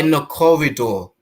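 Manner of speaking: loud, disbelieving echo; appalled emphasis. Real, not acted. Host echoing the shocking detail, appalled. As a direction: repeat it forcefully, scandalised.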